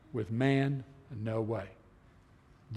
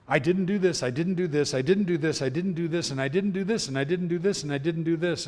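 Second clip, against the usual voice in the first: higher-pitched, repetitive run of denials; insistent pleading list; 4 semitones higher than usual. Acted. Preacher acts out uncle defending himself before God, insistent pleading. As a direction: reel off each denial in the same insistent lilt.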